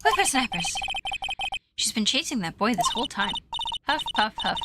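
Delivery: lightly voiced, breathless old woman grumbling; a hint of a cranky old lady; winded old lady. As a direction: huff through the threats like a tired grandma. Old lady character lines.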